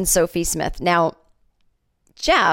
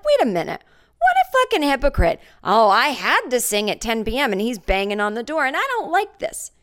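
outraged thought; 5 semitones higher than usual. Retold or imitated. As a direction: fume at the hypocrite.

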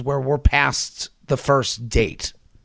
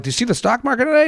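mock finance bro; 9 semitones higher, much faster than usual. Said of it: "they're like".

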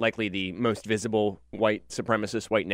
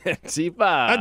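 loud, slow, hammed-up Antifa; mock Trump shout; 9 semitones higher, 6 dB louder, slower than usual. Cohost echoing Trump's Antifa line, loud and hammed-up. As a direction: stretch out Antifa like a mocked rally cry.

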